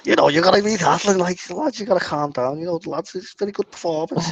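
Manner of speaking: lightly put-on Liverpool Scouse manager voice; Scouse accent. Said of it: "It's a really bad Scouse accent".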